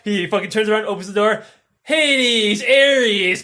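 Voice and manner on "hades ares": hailing the gods. Acted. Sisyphus greets gods at the door.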